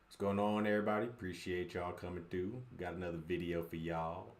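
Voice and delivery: put-on lightly twangy country accent greeting. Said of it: "Country accent".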